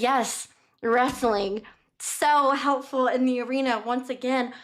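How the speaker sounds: slow, drawn-out mockery; dry sarcasm, stretching each word out; sarcastic. Haymitch mocks wrestling as useless.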